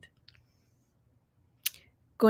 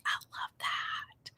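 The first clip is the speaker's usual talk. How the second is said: whispered approval; 15 dB quieter, much slower than usual. Real, not acted. Reacting to a viewer's plan.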